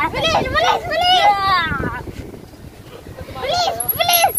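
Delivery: high urgent shouts on the run; while running. Real, not acted. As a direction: call out fast while running. Child urging, shouting.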